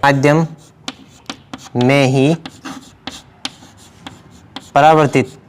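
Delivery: halting, a word or two at a time; slow dictation. Real, not acted. Teacher dictating the rule to students, slow dictation. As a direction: dictate with long gaps for writing. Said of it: "इसमें हम लिखेंगे".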